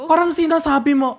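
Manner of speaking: normal talking voice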